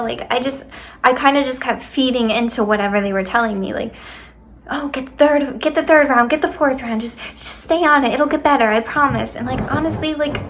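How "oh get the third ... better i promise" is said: higher-pitched imitation of pushy reassurance; mock coaxing. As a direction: mimic someone talking a patient round. Mimicking doctors coaxing her to continue.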